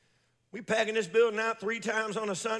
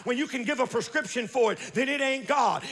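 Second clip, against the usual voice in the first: rhythmic, building sermon refrain; fervent preaching. Real, not acted. Preacher telling congregation when God shows up, fervent preaching. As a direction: drive each phrase home like a revival preacher. Preaches in driving repeated phrases.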